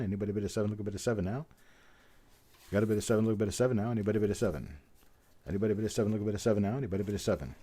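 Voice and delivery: rapid auctioneer chant; frantic trading floor shouting. Acted. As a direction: rattle off the bids like an auctioneer. Runs a coin roll auction.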